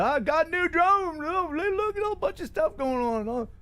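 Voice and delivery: lightly put-on Southern accent, playing a naive hobbyist; Southern accent, teasing; mock Southern accent. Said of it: "You keep doing the Southern thing".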